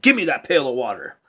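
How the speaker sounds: low, quick grab for the bucket; mildly insistent, fast; Jack demanding. Acted. Jack tells the girl to hand over the water, fast and pushy. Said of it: "And Jack said".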